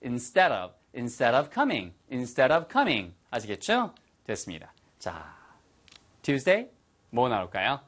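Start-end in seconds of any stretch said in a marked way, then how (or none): 0.0-3.1 "instead of coming" linked, D softened to a tap; fast linked pronunciation. Shown as a demonstration. Teacher repeating the connected form, "instead of" linked with a flapped D. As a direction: run "instead of" together before "coming". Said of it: "빨리 하면은".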